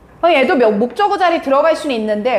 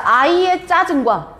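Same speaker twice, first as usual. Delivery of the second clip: slow dictation; 3 semitones higher, slower than usual. Shown as a demonstration. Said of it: "부릅니다".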